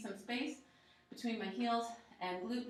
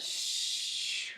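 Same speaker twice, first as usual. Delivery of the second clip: exhale hiss. Shown as a demonstration.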